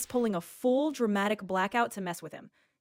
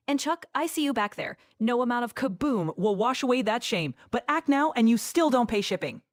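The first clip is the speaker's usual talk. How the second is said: Billy Mays pitch. Acted. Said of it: "sell me some Kaboom like your Billy Mays".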